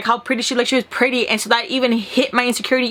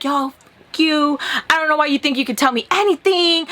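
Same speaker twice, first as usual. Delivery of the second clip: mildly heated, higher-pitched retelling; going off; 4 semitones higher than usual. Retold or imitated. Going off on the ex by phone, mildly angry. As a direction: replay telling someone off. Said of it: "going off on him".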